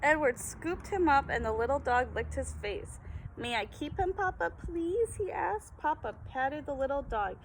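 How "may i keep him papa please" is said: pleading. Acted. Boy begging his father.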